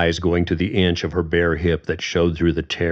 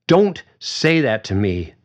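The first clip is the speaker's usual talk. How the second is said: flaring up; 4 semitones higher, 3 dB louder than usual. Acted. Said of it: "Susan flared".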